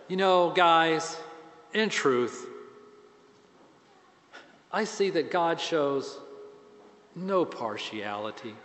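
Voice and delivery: quiet, reluctant admission, fading out; a hint of Peter's weary frustration; frustrated reluctance. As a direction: admit it to them grudgingly. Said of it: "the frustration in his voice here".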